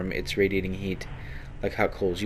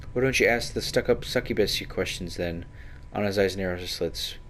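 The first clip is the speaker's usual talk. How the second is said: a hint of a suspicious rogue, sharp and defensive; a touch of a glaring, jealous companion; lightly voiced prickly Anna; 2 semitones higher than usual. Companion Anna snapping at the hero about the succubus, lightly voiced.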